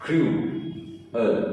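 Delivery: क्रूअल drawn out very slowly, nearly whispered; slow syllable demo. Shown as a demonstration. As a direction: stretch क्रूअल slowly, breathy. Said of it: "आपका syllable क्या हो जाएगा". (धीरे-धीरे फुसफुसाकर क्रूअल)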